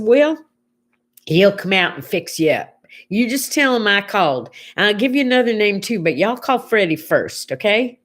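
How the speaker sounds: lightly imitated Southern lady; a folksy Southern twang, helpful and chatty; Southern accent. Lady on the phone passes on a referral, Southern accent. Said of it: "nice lady with a Southern accent".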